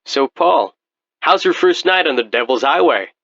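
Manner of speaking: high, fast mocking voice; mock him with glee; sinister taunt. Ghostly host taunts Paul.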